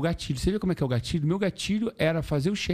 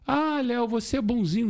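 higher, sing-song mimicry of people praising him; mock admirer voice; 8 semitones higher than usual. Léo mimicking people who call him nice, mock sweet voice. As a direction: tease it like a fawning fan, pitched up.

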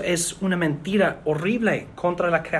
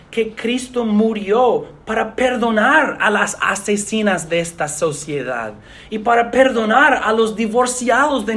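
raised, forceful gospel proclamation; emphatic preaching; 4 semitones higher than usual. Real, not acted. Preacher proclaiming forgiveness to a congregation, emphatic preaching. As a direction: preach it with conviction, pitch lifted.

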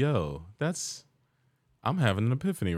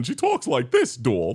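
put-on game character, pitched way up; Amy; 3 dB louder than usual. Shown as a demonstration. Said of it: "Amy from Sonic Adventure voice".

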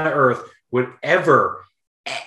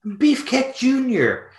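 mock ranting dad. Dad ranting about Brutus kid.

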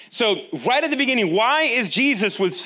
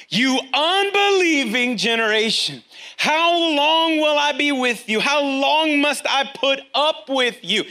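exasperated rebuke; 5 semitones higher, slower than usual. Acted. Jesus rebukes the disciples.

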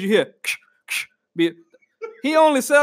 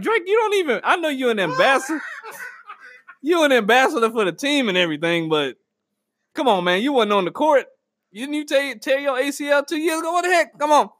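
higher-pitched, incredulous scolding; mock exasperation; 4 semitones higher than usual. Fan scolding a rapper on the sideline, mock-exasperated. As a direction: call him out in comic disbelief.

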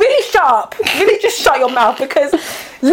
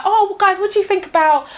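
mock small talk; 3 semitones higher than usual. Mimicking colleagues making small talk about covid, mock-chatty. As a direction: put on an eager chit-chat voice, mockingly.

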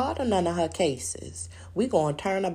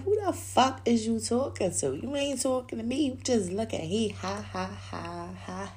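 mildly heated retort; arguing with him, half laughing; mock confrontation. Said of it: "And I be like".

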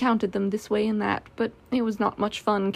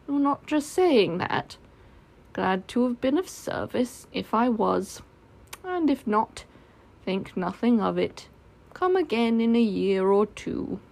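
lightly voiced doleful donkey; glum Eeyore. Eeyore answering Christopher Robin's thanks, mildly doleful.

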